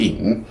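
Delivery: "Ying" with an ee vowel, dipping low then rising; Mandarin third tone. Shown as a demonstration. Teacher showing viewers the dipping tone of "Ying". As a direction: say "Ying" like "eeng", dip and rise. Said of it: "the I is an E sound".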